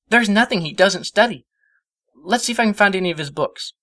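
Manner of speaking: put-on high, eager young mare voice; gushing over her idol; Twilight's voice. A narrator's reading. Twilight lists her hero's fields to Spike, high and eager.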